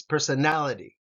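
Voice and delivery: Personality with nality stressed. Shown as a demonstration. Teacher modelling Personality for students, stress on nality. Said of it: "the nality gets the emphasis".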